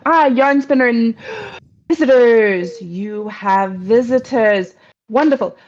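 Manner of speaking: lightly voiced courtly spider, delighted by guests; genial spider newcomer. Spider arriving to find Yarn Spinner has visitors, pleased.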